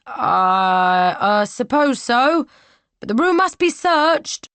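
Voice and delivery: stammer, then insist; hesitant soldier. Acted. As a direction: soldier unsure yet dutiful.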